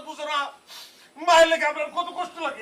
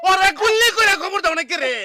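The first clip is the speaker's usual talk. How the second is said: louder and higher, furious yell; angry shout; 6 semitones higher, 8 dB louder than usual. Acted. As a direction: yell it in outrage at the father. Son furious at father.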